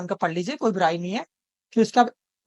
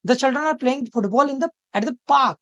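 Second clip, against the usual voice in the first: "park" stressed at the end of the sentence; 4 semitones higher, much slower than usual. Shown as a demonstration. Teacher rereads the sentence to show the stress on "park". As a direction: land firmly on the final word "park". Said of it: "इस sentence को एक बार फिर से पढ़े".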